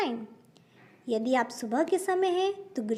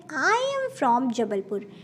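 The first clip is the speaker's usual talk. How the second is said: very slow, clear example line; slow model sentence; much slower than usual. Shown as a demonstration. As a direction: spell the sentence out slowly. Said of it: "इस तरीके से कह सकते हैं". (धीमा, साफ़ उदाहरण)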